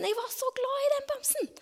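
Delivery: high, breathy hushed whisper of a loved teddy; soft, high child-like whisper; tender whisper. Retold or imitated. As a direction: whisper it like a secret love. Child's fond memory of teddy.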